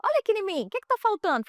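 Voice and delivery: fast, high, showing-off imitation; girl showing herself off, fast and high; playful teen. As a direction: twirl and tease. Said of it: "ela deu uma giradinha assim".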